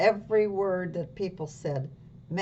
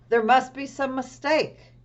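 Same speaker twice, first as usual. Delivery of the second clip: surprised manager; 8 semitones higher, 6 dB louder than usual. Acted. Manager voiced in story.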